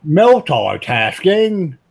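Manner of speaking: stretched-out, doubting echo of "Multitasking?"; mock disbelief. Real, not acted. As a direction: drag the word out slowly in disbelief. Mocking echo of Willie's word.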